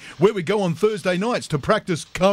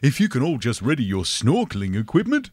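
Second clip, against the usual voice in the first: lower, rehearsed tour guide patter; 5 semitones lower than usual. Acted. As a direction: announce the sights to the group. Tour guide spiel, music.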